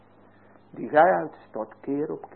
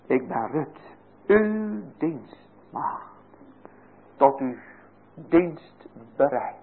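humble Ruth; slower than usual. Acted. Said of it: "terwijl u zelf maar Rut bent".

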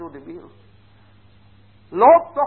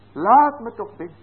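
urgent plea; 4 semitones higher, 5 dB louder than usual. Acted. God pleading at the door.

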